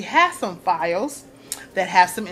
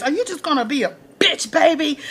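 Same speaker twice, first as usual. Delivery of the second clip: mock taunt; 5 semitones higher than usual. Olivia in Cyrus's face.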